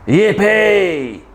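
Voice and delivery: high jubilant cheer; cried out. A narrator's reading. Tyrannosaurs see the fallen tree, high jubilant cry. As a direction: whoop it high. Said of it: "and the T's cried out".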